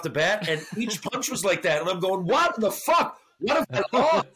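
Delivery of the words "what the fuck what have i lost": panicked inner thought. Retold or imitated. Retold panic after being punched.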